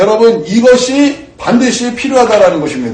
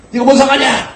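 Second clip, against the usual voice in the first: higher pitched, mock rude retort; rude woman snapping; 7 semitones higher than usual. Woman snapping at the pastor, mock rude. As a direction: imitate her brushing him off.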